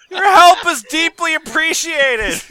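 dramatic petition reading. Acted.

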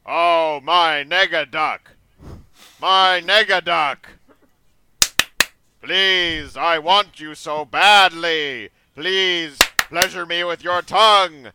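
high, loud, desperate pleading cries; squeaky rubber duck. Acted. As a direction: wail it out like an overacted cartoon duck. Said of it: "are you doing my Sharona".

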